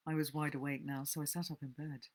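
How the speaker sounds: steady reading of a thriller, a little hushed; story narration. A narrator's reading. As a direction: read the tale aloud as a narrator, drawing listeners in. Reads a novel aloud.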